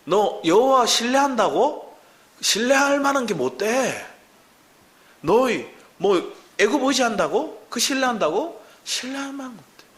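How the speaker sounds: slow, high-pitched scornful challenge; mocking taunt. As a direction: jeer at their trust, drawing it out. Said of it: "와서 조롱하는 거예요".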